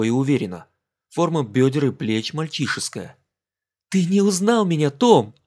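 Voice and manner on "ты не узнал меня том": laughing tease. Acted. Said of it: "Она рассмеялась".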